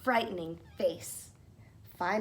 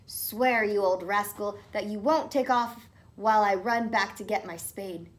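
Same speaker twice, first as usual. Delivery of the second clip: stern demand; 5 dB louder than usual. Acted. Tom demands an oath.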